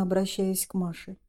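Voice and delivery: ordinary delivery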